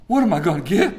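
acted trepidation. Son awaiting his dad's punishment, mock-fearful. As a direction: play a child dreading punishment. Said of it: "it's fear and trepidation now".

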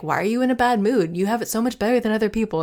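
self-scolding. Retold or imitated. Woman scolding herself for her bad mood, mock reproach. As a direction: lightly berate yourself for moping. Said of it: "I will spin into".

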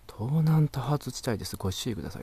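mock car navi announcement. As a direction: recite it like a prim navigation system. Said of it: "って".

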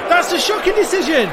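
high furious protest at the ref; pleading with the referee. Acted. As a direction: scream the protest at the official. Shouting at the ref in jingle.

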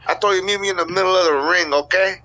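wrestling promo. Pretend. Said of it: "cut a promo as a cocaine dealer".

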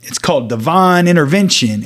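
loud preacher cutting in. Retold or imitated. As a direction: proclaim it like the preacher. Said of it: "he goes".

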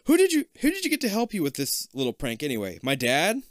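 put-on teasing kid asking; excited asking. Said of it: "you ask".

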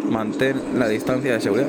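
distant PA announcement; far-off loudspeaker call; airport announcement. Real, not acted. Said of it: "Para que veáis que no engaño".

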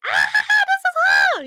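loud, high fangirl cheer; excited shout. Retold or imitated. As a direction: shriek it like a thrilled fan. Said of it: "I was so excited".

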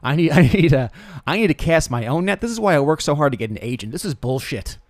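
worked-up celebrity griping, rising in pitch; mock exasperation. Celebrity fed up with casting and agents, exasperated. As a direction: play an indignant complaint.

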